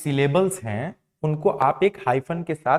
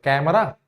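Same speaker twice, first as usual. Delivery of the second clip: कैमरा louder, rising on the last syllable; कैमरा as a questioning full-voiced demo; whole word pronounced; 4 dB louder, slower than usual. Shown as a demonstration. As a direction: give all of कैमरा full weight, ending up. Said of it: "पूरा pronounce करेंगे".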